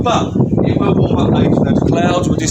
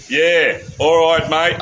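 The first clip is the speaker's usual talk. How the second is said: badly faked Manchester accent, drawn out. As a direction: have a half-hearted go at a Manchester accent. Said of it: "I can't do a Manchester accent".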